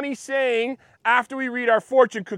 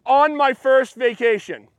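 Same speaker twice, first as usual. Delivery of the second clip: slow demo. Shown as a demonstration. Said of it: "we're gonna say".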